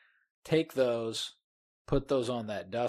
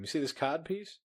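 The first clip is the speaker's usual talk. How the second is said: boasting Ambrose; 6 semitones higher than usual. Retold or imitated.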